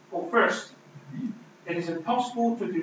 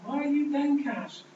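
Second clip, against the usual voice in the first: much higher, louder and slow, pleading with his own soul; anguished plea; 9 semitones higher, 7 dB louder than usual. Retold or imitated. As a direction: cry out to your own soul, slow and raised. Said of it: "David looks in himself and says".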